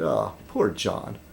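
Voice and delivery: low, slow, soft pity; softened sympathy. Retold or imitated. Pitying John after the toilet video, soft and slow. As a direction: sigh it out softly in sympathy. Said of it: "my heart softened a little bit".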